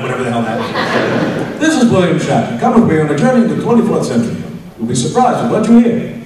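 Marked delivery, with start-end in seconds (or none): 1.6-6.1 mildly hearty read of the Shatner intro; a touch of jolly cheer; lightly hammed-up hearty narrator; hail fellow well met. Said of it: "he does it again, more Hail Fellow Well Met".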